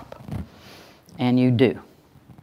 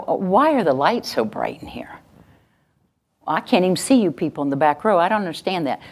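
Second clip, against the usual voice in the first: mild complaining; 2 semitones higher than usual. Shown as a demonstration. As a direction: gripe mildly about a small nuisance. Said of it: "I'm just complaining".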